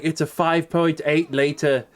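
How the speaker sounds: lightly put-on woman's voice, drawn out at the end; mock dramatic reveal; mocking the actress. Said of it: "she's gonna be like".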